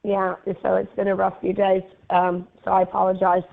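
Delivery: raspy smoker-like hoarse voice. Real, not acted. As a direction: speak with a worn hoarse throat. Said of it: "now I sound like a smoker".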